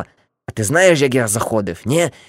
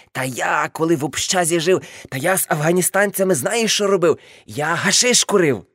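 put-on higher, swaggering drunk boast; mock boasting uncle; 5 semitones higher than usual. Uncle threatening to throw aunt off the balcony, mock bragging. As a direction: brag and threaten like a tipsy old hippie.

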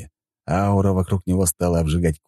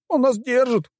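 high, helpless whine; whimpering complaint in a raised voice. A narrator's reading. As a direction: whine the excuse pitifully. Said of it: "проскулил вампир".

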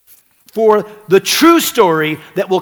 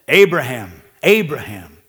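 angel calling; 6 semitones lower than usual. A narrator's reading. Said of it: "called to him from heaven and said".

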